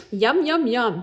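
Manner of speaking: high, loud relish; delighted yum. Acted. Boy licking syrup with delight, high and loud. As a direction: savour it out loud.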